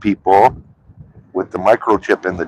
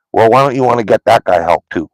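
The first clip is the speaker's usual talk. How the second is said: heated, slightly raised rant; 3 semitones higher, faster than usual. Real, not acted. Ranting to viewers about addicts getting help, slightly raised voice. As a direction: push the question out in frustration. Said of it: "Sorry if I screamed".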